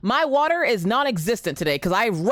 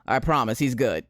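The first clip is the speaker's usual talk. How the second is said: laughing; 8 semitones lower than usual. Real, not acted. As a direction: giggle through the reassurance. Laughs off son's scare.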